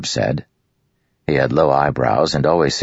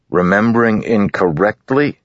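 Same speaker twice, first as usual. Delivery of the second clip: "Remembering incorrectly?" thrown back, louder and rising; incredulous echo; 7 semitones higher, 4 dB louder than usual. A narrator's reading. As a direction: repeat his words in disbelief. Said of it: "Jost said echoing".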